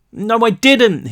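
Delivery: desperate denial. A narrator's reading. Brick denying desperately.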